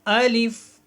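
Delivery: الف said crisply as alif, not aleef; clear letter demo. Shown as a demonstration. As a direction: model الف slowly for children to copy. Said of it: "اس کو الیف یا الف نہیں بولنا". (الف کو صاف اور واضح ادا کریں)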